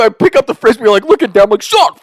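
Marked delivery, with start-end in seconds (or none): 1.6-1.9 high, quick shout of a name; reenacted on-field yell; calling out. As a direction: act out calling to a teammate. Calling teammate in retold game.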